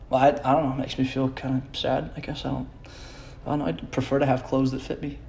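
patient mumbling to a pretend therapist; mock patient. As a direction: answer the therapist like a sulky patient.

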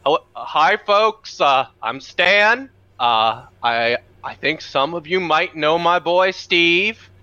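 lightly voiced friendly dad, slow and gentle; folksy dad Stan. Stan greets the wrestling audience, a lightly voiced slow folksy dad. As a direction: play a mild, slow folksy father greeting the crowd. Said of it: "he says".

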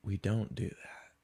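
low, soft, dismissive put-down; dismissive refusal. Retold or imitated. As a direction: imitate a barista's quiet, final refusal. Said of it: "It was".

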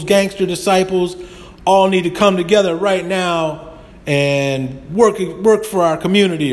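half-hammed politician calling out to the crowd; mock rally speech. Councilman at a park rally calls on the gangs, lightly mocked orator voice.

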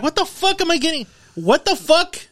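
high-pitched incredulous outburst; hammed-up bafflement, voice jumping way up; acted indignation. Retelling his reaction to pill ads, acted indignation.

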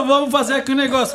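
Brusque weaver. Retold or imitated. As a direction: ham up a shouting Brusque textile worker. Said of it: "É igual aqui os tecelão de Brusque".

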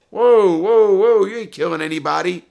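very loud, high cry to halt; shouted objection. Retold or imitated. Larry stopping mobsters from killing his client, shouted protest. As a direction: cut them off at full volume, then ease slightly.

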